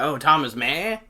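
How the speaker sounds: puzzled, rising question; confused. Retold or imitated. Famous man mishears the name Marr, confused questioning. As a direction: imitate someone baffled by a name. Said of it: "he got confused".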